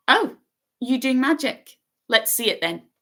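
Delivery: high, keen bossy schoolgirl; bossy girl. A narrator's reading. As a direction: demand to see it. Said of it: "She had a bossy sort of voice".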